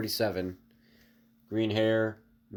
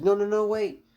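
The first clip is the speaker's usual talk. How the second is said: much higher, loud pleading yell; desperate shout; 12 semitones higher, 8 dB louder than usual. Acted. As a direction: beg them to stop shooting. Guards start shooting at Deku.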